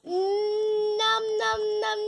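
munching with mouth full. Real, not acted. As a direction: nom it through a mouthful. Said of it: "don't talk with your mouth full".

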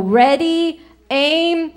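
lightly acted execution order; a hint of a drill-call; firing squad command. Firing squad command repeated in joke.

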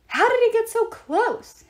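high, slow, loud alarmed shout. A narrator's reading. Annabeth shouting at the others, alarmed. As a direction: yell it across the tilting deck. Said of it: "Annabeth shouted".

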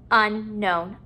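"unknown" split after the prefix; parts apart. Shown as a demonstration. Teacher putting a prefix at the beginning, parts apart. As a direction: pause between "un" and "known". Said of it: "putting a prefix at the beginning".

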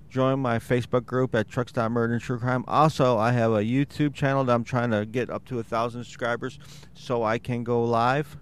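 congested, slightly wheezy. Real, not acted. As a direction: talk through a stuffy, wheezy chest. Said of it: "So if I sound a little wheezy".

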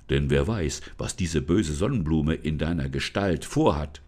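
low, calm spirit voice, warning; forest spirit, grave. Acted. Forest spirit warns Lisa about the sunflower, low and grave. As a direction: speak low and earnest as the spirit.

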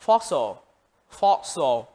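"fossil," with FOS stressed, pitch falling after; first-syllable stress. Shown as a demonstration. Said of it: "Các bạn nhấn vào âm số một".

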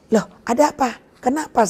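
a mother sensing bad news, voice climbing; alarmed question.

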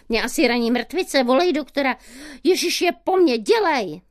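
a man yelling at his bleeding partner; hysterical yelling. Retold or imitated. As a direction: rant at her in a hysterical rage. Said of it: "začal na mě řvát".

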